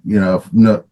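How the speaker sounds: stumbling, cut-off false starts; stuttering. Real, not acted. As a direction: get stuck on the first sounds. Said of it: "jeez, I'm stuttering here".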